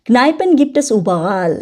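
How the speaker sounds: very slow, careful textbook read; slow German reading. Shown as a demonstration. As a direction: read each word out slowly for learners. Reads German text slowly. (ধীরে ধীরে German পড়া)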